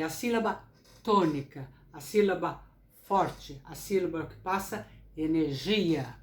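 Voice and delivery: "tônica" and "forte" set apart by pauses, first syllables leaned on; emphatic stressed syllables. Shown as a demonstration. Teacher demonstrates the strong syllable, stressing "tônica", "forte" and "energia". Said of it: "olha como eu falei".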